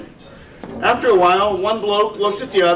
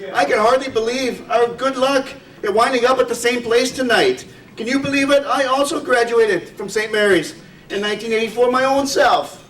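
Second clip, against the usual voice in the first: Irish brogue pitched higher, delighted; overjoyed pub bloke in a hammed-up Irish brogue; exclaiming Irish brogue; 5 semitones higher than usual. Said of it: "The first one exclaims".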